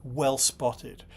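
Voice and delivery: dry mock praise; sarcastic congratulations. Real, not acted. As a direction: congratulate them with understated sarcasm. Sarcastic retort to complaining fans.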